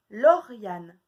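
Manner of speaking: loud "Lauriane" with the first syllable cut; called-out syllable. Shown as a demonstration. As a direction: call out "Lauriane" to the class. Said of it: "de deviner lesquels c'est".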